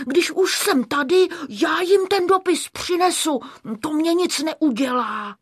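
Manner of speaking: high, eager little character voice; Škubánek. A narrator's reading. Škubánek dál utěšuje Káťu. (vysoký ochotný hlásek)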